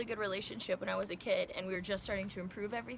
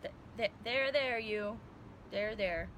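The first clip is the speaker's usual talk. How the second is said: awkward stranger soothing; slower than usual. Retold or imitated. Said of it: "He's just like".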